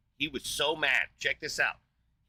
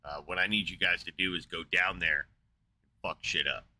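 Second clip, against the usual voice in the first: God's voice; 5 semitones lower than usual. Retold or imitated. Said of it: "and he says".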